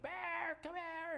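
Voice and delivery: put-on high-pitched call of a young girl; imitating the girls calling Bear from far off; girl calling dog. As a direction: call the dog like his little daughter.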